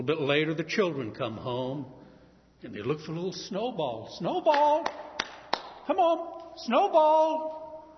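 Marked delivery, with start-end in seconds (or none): 4.2-7.8 high calls for a lost pet; calling out. Acted. Children calling for their lost lamb, high and loud. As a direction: call out across the yard.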